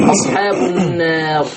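slow recitation with a softened, tilted alif in النار; تلاوة ورش. Shown as a demonstration. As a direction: recite النار drawn out, alif leaning toward e. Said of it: "بصوا لكلمة النار". (تلاوة بتقليل ألف النار)

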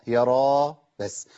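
را said plainly and slowly, with an open end; correct Ra. Shown as a demonstration. Teacher correcting the common mistake. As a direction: draw out را with no stop at the end. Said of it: "هي مش راء".

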